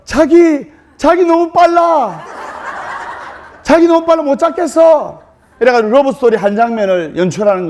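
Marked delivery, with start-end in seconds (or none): 0.0-5.2 mock-whining groom. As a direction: ham up a lover who can't catch her. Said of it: "넘어지면서".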